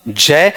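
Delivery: "जय" as "jeh", with a hard j; sound demonstration. Shown as a demonstration. Teacher contrasting three sounds for students, sound demonstration. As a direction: affricate j at the start of "जय". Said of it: "बताओ कौन सा".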